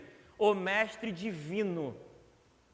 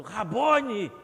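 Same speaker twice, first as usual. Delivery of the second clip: Rabone called out louder, falling; mock cry out; 2 semitones higher, 7 dB louder than usual. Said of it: "Eu imagino ela gritando". (Rabone exclamado em voz alta, caindo no tom)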